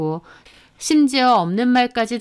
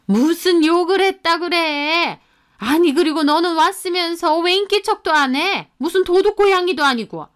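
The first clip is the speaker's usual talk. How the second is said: mother-in-law, pitched higher, snapping back defensively; 5 semitones higher than usual. Acted. Mother-in-law caught gossiping, defensive and indignant. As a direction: brush off the accusation, indignant older mother.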